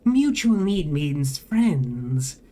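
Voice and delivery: slow, whirring robotic drone; whining machine voice. A narrator's reading. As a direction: speak like a glitching vending machine.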